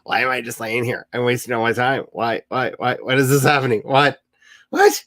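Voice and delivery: rising alarm, ending in a squeaky What; playful mock panic while lying awake; mock panicked inner voice. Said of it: "But I just lay there going".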